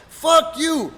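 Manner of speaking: loud, high cursing burst; retold angry defiance. Wrestler defying his friend before punching, angry shout. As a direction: throw the curse back at him.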